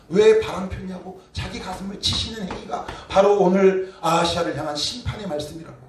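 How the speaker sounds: ordinary talk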